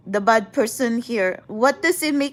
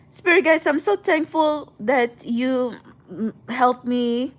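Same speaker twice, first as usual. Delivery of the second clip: tipsy. Real, not acted. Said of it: "I'm kinda tipsy from the pina colada".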